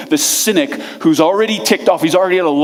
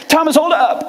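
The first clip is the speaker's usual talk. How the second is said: higher, urgent call; calling after; 9 semitones higher than usual. Retold or imitated. Philip calling after Thomas as he walks away, higher and pleading. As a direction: call him back before he leaves. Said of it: "Philip's got a bleeding heart".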